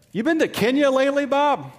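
official caller. Retold or imitated. State Department caller questions Bob.

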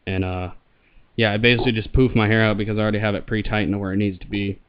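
muffled voice behind a mask; talking through a respirator; through a gas mask. Real, not acted. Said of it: "I'll throw it on here and show it, and I'll talk into the mic".

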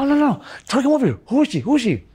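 high, agitated challenge; acted demand. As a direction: re-enact a heated demand to face someone. Acted quarrel, demanding to see woman.

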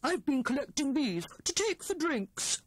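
high, eager Hare voice; bubbling over with his find; excited. A narrator's reading. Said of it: "said he excitedly".

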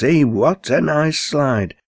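high, excited sliding squeal; Betty's squeal. Acted. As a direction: squeal with glee as she slides off. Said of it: "Says Betty at Robin's".

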